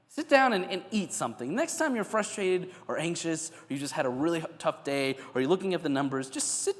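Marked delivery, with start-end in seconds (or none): 0.1-1.5 Sit down much higher and louder, and eat something more level; emphatic command. Retold or imitated. Jesus urging a stressed person to sit, emphatic and high. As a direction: push Sit down high and loud like a caring insistence. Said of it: "Jesus knows exactly how to calm down a human being".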